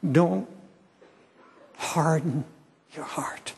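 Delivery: praying aloud with long pauses between phrases; earnest prayer. Real, not acted. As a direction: address God directly, phrase by phrase.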